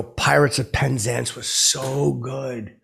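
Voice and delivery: slowed right down for clarity; deliberately slow repeat to be heard. Retold or imitated. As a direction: spell it out slowly after "What?".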